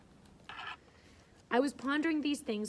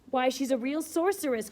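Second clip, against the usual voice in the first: loud, high delighted cry; excited cry; 4 semitones higher, 6 dB louder than usual. Acted. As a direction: call it out thrilled. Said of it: "cried Frederick Lynn".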